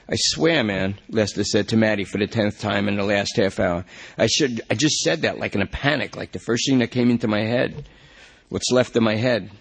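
a strung-out suspect swearing he panicked; junkie Lester pleading. Acted.

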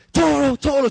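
calling the bull. Retold or imitated. Spanish runners wave newspapers to taunt the bull, calling out. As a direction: lure the bull with a sing-song shout.

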